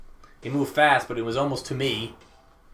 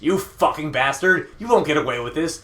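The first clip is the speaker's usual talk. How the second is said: furious yell, raised in pitch; Hongo; 2 semitones higher, 4 dB louder than usual. Acted. Villain yells up from the floor, furious. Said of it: "a furious Hongo yelling at me".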